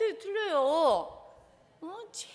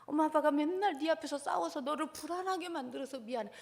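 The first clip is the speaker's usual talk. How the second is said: put-on gentle apology to child. Shown as a demonstration. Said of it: "나 사과부터 먼저 하라 그랬어요". (자녀에게 사과하는 부드러운 부모 목소리)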